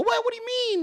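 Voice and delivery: high-pitched mock bewilderment; put-on incredulous reaction; baffled protest. Acting out her baffled reply.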